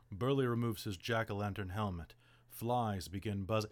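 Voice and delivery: flat dutiful read-aloud; reading box text. Retold or imitated. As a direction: read the module text straight off the page. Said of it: "you can watch my face and it's".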